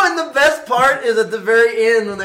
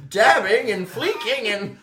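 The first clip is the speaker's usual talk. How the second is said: put-on old prospector; 4 semitones higher than usual. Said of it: "cranky old man".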